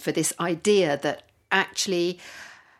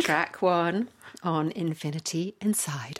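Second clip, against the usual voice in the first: slow, formal announcer read; newsreader voice; 4 dB quieter than usual. Shown as a demonstration. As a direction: announce it like the news. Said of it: "I have to say it like that in my newsreader voice".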